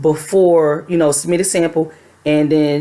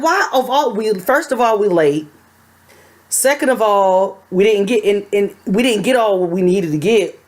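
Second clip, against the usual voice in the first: upset crying rant; 3 semitones higher than usual. Retold or imitated. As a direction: plead through tears at the lost sample. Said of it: "I cried and I cried".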